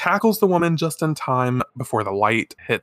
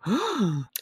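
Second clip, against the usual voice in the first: gasp; 8 semitones higher, 6 dB quieter than usual. Real, not acted. Gasp at dropped compact.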